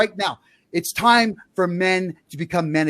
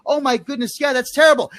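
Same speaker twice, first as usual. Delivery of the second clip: mock parent; 5 semitones higher than usual. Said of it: "you watch shows like this where you go".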